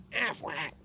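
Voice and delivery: sung-out Affleck like an ad; jingle voice. Pretend. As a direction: imitate the insurance duck ad call. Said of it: "one of the soundboards".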